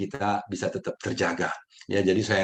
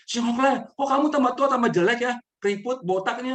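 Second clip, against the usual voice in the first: teasing blunt remark; 13 semitones higher, 4 dB louder than usual. Retold or imitated. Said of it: "Si Asien bilang".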